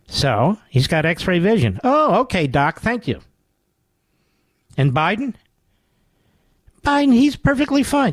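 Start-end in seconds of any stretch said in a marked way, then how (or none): 1.8-3.2 sarcastic okay. Real, not acted. Sarcastic reply to doctor. 6.8-8.1 mock reassurance.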